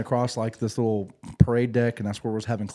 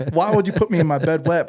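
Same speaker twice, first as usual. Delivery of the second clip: mock annoyed complaint; 7 semitones higher, 6 dB louder than usual. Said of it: "so now I'm pissed at my guys".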